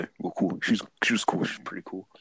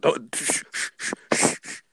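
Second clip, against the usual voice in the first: hushing; 6 semitones higher than usual. Retold or imitated. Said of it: "She was like".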